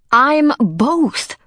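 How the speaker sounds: high, cried-out protest; arguing. A narrator's reading. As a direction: burst out in protest. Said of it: "the girl argued".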